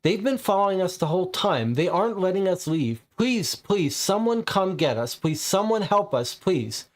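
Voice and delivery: hunted hiker pleading into a phone for rescue, frightened; panicked call for help. Acted. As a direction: beg for help over the radio, scared. Panicked distress call continues.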